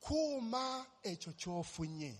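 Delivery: "Kuma echo chofunye." said slowly in Luganda; Luganda phrase. Retold or imitated. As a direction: spell out "Kuma echo chofunye." deliberately, word by word. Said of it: "The first words that came out of his mouth, were".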